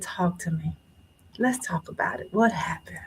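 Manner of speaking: soft, hushed bedside questioning; gentle coaxing doctor. Retold or imitated. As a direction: quietly invite them to open up, as a doctor would. Doctor on bed coaxing her gently.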